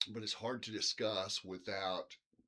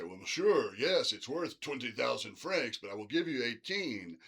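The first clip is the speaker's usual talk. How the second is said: bad French accent; 5 dB louder than usual. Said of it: "Pardon the bad French accent".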